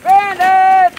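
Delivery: high, loud yell across a field; calling the dog. Real, not acted. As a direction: holler for the runaway dog.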